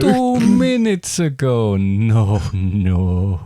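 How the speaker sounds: slow, lightly put-on vampire. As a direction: play the vampire guest slowly. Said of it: "my name is Brad".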